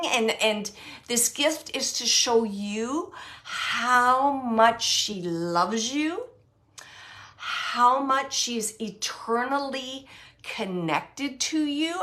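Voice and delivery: slow, solemn and sincere; slow it right down, deeply earnest; serious, solemn. Retold or imitated. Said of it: "I'm getting serious 'cause that's how she's saying it".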